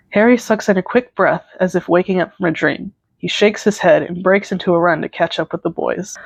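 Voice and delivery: measured second-person storytelling; story narration. A narrator's reading. Narrator setting up a concert fan fiction, story narration. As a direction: read it out like a story.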